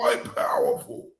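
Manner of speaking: high, airy mimicry of "powerful"; exaggerated, high-pitched stress on "powerful"; mock emphasis. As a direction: echo her in a squeaky whispered "powerful". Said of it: "Oh, you want to emphasis".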